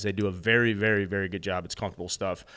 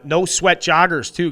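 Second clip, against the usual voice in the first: no sweat joggers pitched high, loud and slow; excited plug; 7 semitones higher, 8 dB louder, slower than usual. Shown as a demonstration. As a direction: sell "no sweat joggers" with a big, drawn-out lift. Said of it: "we've been talking about no sweat joggers".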